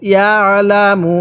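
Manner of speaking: slow "ইয়ালামু" with light throat pressure on the ain after ইয়া; throat-pressed ain. Shown as a demonstration. Teacher showing the ain sound, "ইয়ালামু" slow with a light throat squeeze. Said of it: "গলার মধ্যে হালকা চাপ দিয়ে পড়লে".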